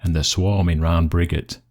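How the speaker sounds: measured Yorkshire dialect verse; poem recital. Acted. Recites dialect poem after intro.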